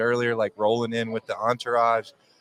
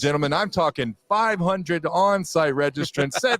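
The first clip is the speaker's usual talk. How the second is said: announcing record attendance like a sportscaster; hammed-up sportscaster hype, pitched up; mock sportscaster; 4 semitones higher than usual. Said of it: "you sound like part, part sportscaster, part weatherman".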